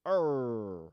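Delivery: loud pirate-style growled "arr"; villain's "arr". Retold or imitated. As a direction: let out a mock pirate roar. Acts the villain taking over.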